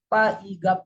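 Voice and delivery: "pa-iga" as separate phonetic sounds; sounded out. Shown as a demonstration. Teacher breaking pig into its phonetic symbols, sounded out. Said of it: "put the phonetic symbol of word".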